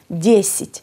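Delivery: Δέσιτ, strong first syllable, second weakened to "i"; unstressed vowel as i. Shown as a demonstration. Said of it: "είναι χωρίς τόνο και ακούγεται σαν". (Δέσιτ με το άτονο φωνήεν σαν «ι»)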